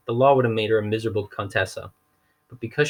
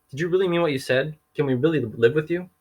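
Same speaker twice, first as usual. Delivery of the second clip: hopeful; 6 semitones higher than usual. Acted. Hopeful orphan asks judge.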